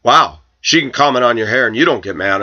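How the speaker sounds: mock the coworker's angry complaint; imitated huffy objection; retold angry outburst. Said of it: "got very angry and said".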